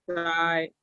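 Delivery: "Sai" as shai, with a hushing start; SH sound. Shown as a demonstration. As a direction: model "Sai" with Mandarin SH. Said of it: "Ahora con la S".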